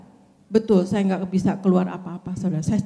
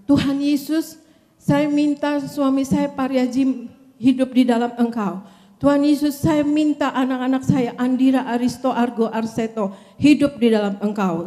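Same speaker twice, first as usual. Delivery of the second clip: raised-voice plea to Jesus, mildly re-enacted; retold cried-out prayer; 4 semitones higher, 3 dB louder than usual. Woman retelling her plea for husband and children, cried-out prayer. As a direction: pray aloud with slightly lifted, insistent voice. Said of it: "saya teriak".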